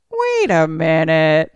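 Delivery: slow, drawn-out realisation; slow puzzled double take; retold dawning suspicion. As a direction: stretch it out suspiciously. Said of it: "I was like".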